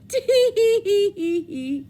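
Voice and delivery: high, slow monkey giggle; teasing monkeys. Acted. Monkeys mocking the peddler with high slow giggles. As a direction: tease him like cheeky monkeys. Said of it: "the monkeys ... said".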